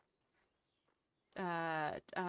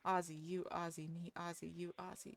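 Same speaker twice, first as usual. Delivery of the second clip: call-and-response demo; 3 semitones lower, 7 dB quieter than usual. Shown as a demonstration. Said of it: "there's a call and a response bit".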